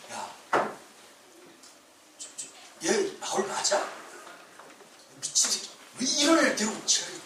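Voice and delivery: unvoiced, hushed aside; whispered mocking gossip. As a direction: whisper behind your hand to the other king. King whispering about Paul.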